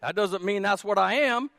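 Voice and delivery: ordinary talk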